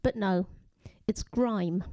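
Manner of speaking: measured poem reading, phrase by phrase; poetry reading. Acted. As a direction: read the poem deliberately, pausing between images. Reads own poem aloud.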